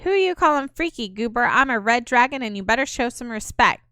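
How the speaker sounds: cocky little dragon. Acted. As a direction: puff up like a tiny insulted dragon.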